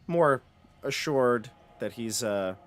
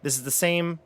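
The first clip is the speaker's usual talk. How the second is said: scene-setting read-aloud. Acted. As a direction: read out the room with deliberate phrasing. Game master reads room description.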